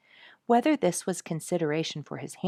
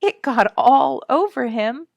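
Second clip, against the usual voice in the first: put-on gleeful child; 7 semitones higher, 11 dB louder than usual. A narrator's reading. Child laughing at the mess.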